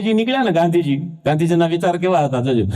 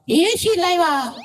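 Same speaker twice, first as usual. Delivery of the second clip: put-on much higher, whiny little boy; child's voice; 11 semitones higher, slower than usual. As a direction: call out to mom like a small kid. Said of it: "એક છોકરો એની મમ્મીને". (મમ્મીને બોલાવતો નાનો છોકરો, ઊંચા અવાજે)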